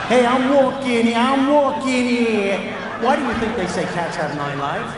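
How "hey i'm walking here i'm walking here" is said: put-on loud, high New York accent, slowing on the repeat; hammed-up New York street attitude; New York tough guy. Cat talking like a New York tough guy, loud. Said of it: "Every cat on this planet has a New York attitude".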